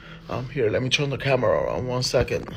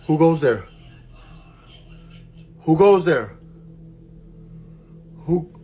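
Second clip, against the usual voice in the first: loud, higher call into the dark; loud challenge; 5 semitones higher, 6 dB louder than usual. Real, not acted. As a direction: demand an answer from the dark, loudly. Challenging unseen presence.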